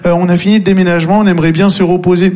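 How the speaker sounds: a friend politely sending you home; mock smug friend. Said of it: "Et lui, il fait".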